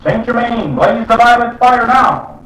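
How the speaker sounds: loud high slow call to Saint Germain; commanding call. Shown as a demonstration. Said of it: "make the call".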